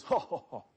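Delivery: a stiff, forced ho ho ho laugh; mock a laugh that isn't catching; unconvincing put-on chuckle; fake laugh. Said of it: "It's not real contagious".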